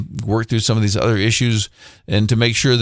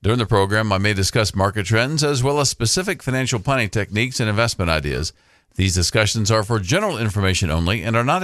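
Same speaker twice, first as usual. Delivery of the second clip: fast legal disclaimer. Acted. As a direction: rattle off the fine print.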